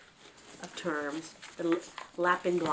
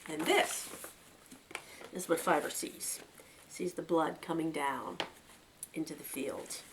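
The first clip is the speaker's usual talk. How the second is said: steady storyteller reading a novel aloud; story narration; 2 semitones higher than usual. A narrator's reading. Reader telling a rabbit story to listeners, narrating. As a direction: read the chapter like a bedtime tale.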